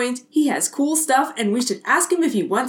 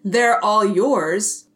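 slow, lower mock vigilante voice; gravelly Batman; 5 semitones lower, much slower than usual. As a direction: mimic the hero's lame line slowly. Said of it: "his voice was almost too gravelly".

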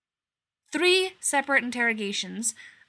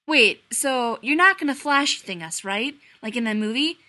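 Denozo asking; 3 semitones higher, 7 dB louder than usual. A narrator's reading. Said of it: "Denozo's unmistakable voice in the hallway asking".

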